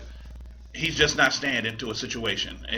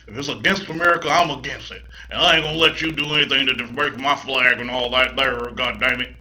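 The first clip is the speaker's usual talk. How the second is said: mock Southern accent. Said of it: "what accent is that".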